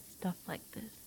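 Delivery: hushed, hesitant confession; shy admission. Acted. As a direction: trail off very softly, low.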